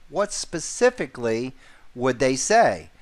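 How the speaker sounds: "specifically" set apart with emphasis before the question ends; stress on specifically. Shown as a demonstration. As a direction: lean on the word "specifically", then a brief pause. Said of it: "Put emphasis on the word specifically".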